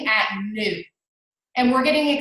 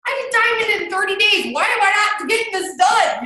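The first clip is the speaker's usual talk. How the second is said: half-shouted, buzzing pep talk to herself; hyped self-talk; 9 semitones higher than usual. Retold or imitated. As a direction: fire yourself up like you can't lose. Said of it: "it gets me hyped".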